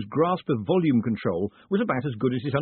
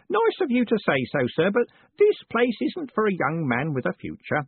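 put-on old Grote; 9 semitones higher than usual. A narrator's reading. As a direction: play a frail old man, pleased. Reader voices Grote.

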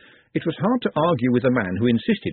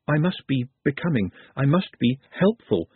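like a mantra; 2 semitones higher than usual. A narrator's reading. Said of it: "like a mantra".

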